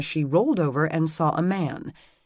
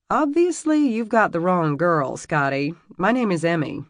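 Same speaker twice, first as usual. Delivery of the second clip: loud, high, exasperated; sharp rebuff; 3 semitones higher, 5 dB louder than usual. Acted. Emmy telling the Scot he has the wrong girl, loud. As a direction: brush him off hard.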